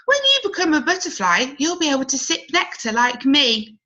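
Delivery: a bee bragging about nectar; cheerful bee. Acted. Bee speaks to Cody.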